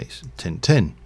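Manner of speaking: lightly imitated Yorkshire "tin tin"; reply in a mild Yorkshire accent, words run together; grandfather's Yorkshire accent. Grandson imitating grandfather's answer, light Yorkshire accent. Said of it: "a Yorkshire accent. He'd say".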